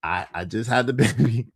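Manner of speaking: lightly mimicked woman, a little low, with a laugh breaking in; imitating Shorty. Man mimicking Shorty's baby news, amused light imitation. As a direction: mimic her talk and crack up slightly. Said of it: "this how she talks".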